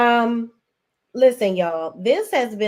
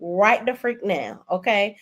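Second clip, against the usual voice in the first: high, fast imitation of the pastor's wife; mimicking a fed-up Rashida; Rashida quoting; 6 semitones higher than usual. Recapping the show, mimics Rashida cutting things off. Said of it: "she said".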